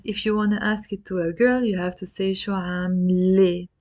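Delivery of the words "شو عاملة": عاملة ending in a clear eh, "aam-leh"; final eh sound. Shown as a demonstration. Teacher showing the feminine question, eh ending on عاملة. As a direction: finish عاملة on eh rather than ah. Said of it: "with the eh sound here".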